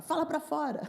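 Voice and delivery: a hint of an impatient loud talker; lightly voiced push to speak up; loud partner's demand. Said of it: "Esse que fala alto".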